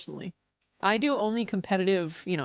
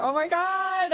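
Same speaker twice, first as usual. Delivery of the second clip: surprised exclaim; 11 semitones higher, slower than usual. Real, not acted. Cat surprise.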